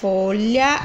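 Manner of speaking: "Folha" stretched slowly as fo-lha, ending on a rise; syllable by syllable. Shown as a demonstration. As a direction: draw out both syllables of "Folha". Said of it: "Separando aqui". ("Folha" alongado, sílaba por sílaba)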